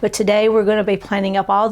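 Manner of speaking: hoarse from strep throat; rough, sore-throat voice. Real, not acted. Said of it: "Excuse my voice today".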